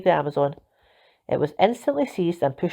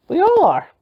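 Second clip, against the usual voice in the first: high, loud defiant cry; excited cry; 13 semitones higher, 7 dB louder than usual. A narrator's reading. Nancy crowing to Captain Flint about their alliance. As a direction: fling it at him triumphantly.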